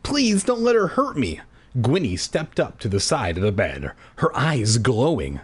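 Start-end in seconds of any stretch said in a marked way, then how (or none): 0.0-1.4 pleading. Acted. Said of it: "I pleaded".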